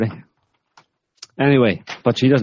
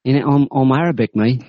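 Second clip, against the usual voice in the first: mock cockney jihadi; 6 semitones higher than usual. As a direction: play a cocky lad from London, pitched well up. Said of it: "I'm a proper jihadi, mate".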